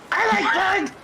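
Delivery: very high squeaky kobold; little kobold. Acted. Kobold chiming in about Bug, very high voice. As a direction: pipe up in a tiny high voice.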